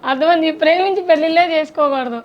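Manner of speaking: loud, smiling take on a sad lament; acted cheerfulness. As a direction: say the sad lines with a put-on smile. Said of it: "నవ్వుతూ continue". (నవ్వుతున్నట్టు గట్టిగా నటిస్తూ)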